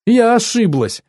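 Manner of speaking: very high, acted weeping cry; high, theatrical tearful outburst; fake tearful wail. A narrator's reading. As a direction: wail the confession like false tears. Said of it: "Ты даже плачешь фальшиво".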